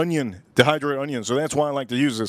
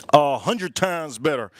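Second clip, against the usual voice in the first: slowed right down, leaning on hundred; slow emphatic repeat; slower than usual. Shown as a demonstration. Repeating it slowly to the cooking audience. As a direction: spell it out slowly for the viewers.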